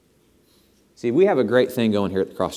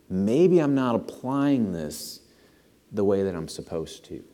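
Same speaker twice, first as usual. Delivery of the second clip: slower, weighted repeat. Shown as a demonstration. Pastor repeats the confession slowly for emphasis. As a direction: lean in and drag it out, pressing each word. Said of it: "In my humble obedience".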